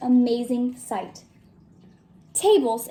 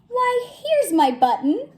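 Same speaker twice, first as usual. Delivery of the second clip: slow, higher glad cry; delighted cry; 8 semitones higher, slower than usual. Acted. Bear finding his lost button, delighted slow cry. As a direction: find the button with joy. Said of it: "he cried".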